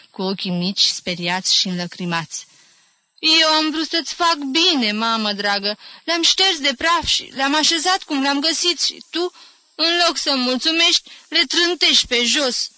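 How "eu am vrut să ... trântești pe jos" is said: put-on higher, wounded old woman's voice; hurt old aunt. A narrator's reading. Old aunt scolding nephew for ruined books, wounded.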